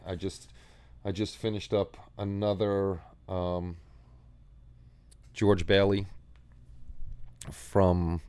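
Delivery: halting, stuttering restarts. Real, not acted. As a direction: trip over the words, stuttering. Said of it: "Sorry, I'm stuttering".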